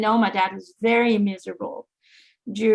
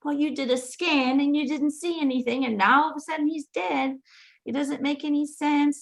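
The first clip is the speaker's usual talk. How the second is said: higher-pitched imitation of a doubting mother; suspicious; 5 semitones higher than usual. Mom doubting the doctor after the sudden death, suspicious. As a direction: challenge the story, imitating growing suspicion. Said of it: "mom was starting to get suspicious".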